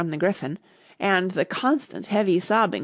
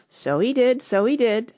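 higher, lamenting Gryphon; sighing; 5 semitones higher, 4 dB louder than usual. A narrator's reading. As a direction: agree with a mournful sigh. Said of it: "sighing in his turn".

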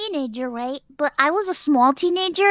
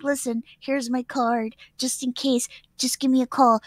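low-key recruiter; 4 semitones lower, 4 dB quieter than usual. Retold or imitated. Voices the man's sales pitch.

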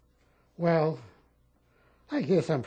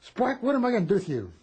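higher, louder exasperated captain; captain scolding the troublesome soldier, higher and louder; 6 semitones higher, 6 dB louder than usual. Retold or imitated. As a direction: scold him like a fed-up officer. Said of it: "he got so mad at me".

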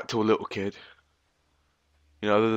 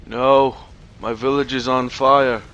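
mock distress; 5 dB louder, slower than usual. Mock-acts the game character's dismay.

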